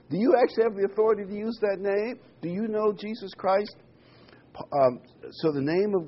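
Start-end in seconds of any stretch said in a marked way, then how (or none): 0.1-3.8 challenging question. Acted. Challenging the listeners.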